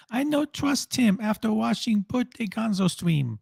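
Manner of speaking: high, slow put-on Asian accent. Shown as a demonstration. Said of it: "you have to do it in, like, a Asian accent".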